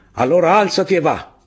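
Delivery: high, loud military command; shouted order. A narrator's reading. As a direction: drive him on with a yell. Captain orders the sniper again.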